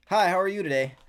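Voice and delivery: bright, high and loud customer-service hello; chirpy service greeting. Retold or imitated. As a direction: greet the customer like a cashier on autopilot. Cheerful greeting at drive-thru window.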